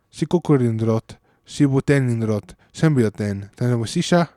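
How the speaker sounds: reciting a conlang poem; poem recital. Shown as a demonstration. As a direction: recite it again in Western Letri. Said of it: "I'm going to recite a poem".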